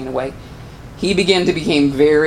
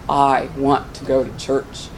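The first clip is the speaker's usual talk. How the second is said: retold tearful plea; 4 semitones lower, 5 dB quieter, slower than usual. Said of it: "he's just bawling".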